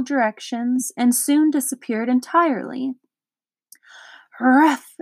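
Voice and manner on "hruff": louder, barking huff; dog's exclamation. Acted. Watchdog dashes up to the car, barking huff. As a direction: bark it out as you arrive. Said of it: "exclaimed the watchdog".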